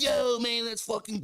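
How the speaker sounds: high-pitched surfer-dude drawl; skateboarder dude. Retold or imitated. Imitating the young writer he met as a stoked skateboarder. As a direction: play the stoked skater bro. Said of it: "boy talk like he was a fucking skateboarder".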